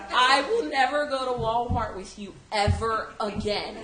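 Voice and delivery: loud vow through laughter; laughing vow. Retold or imitated. Boyfriend swearing off Walmart with her, loud laughing vow. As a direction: declare it while cracking up. Anthony vowing in story.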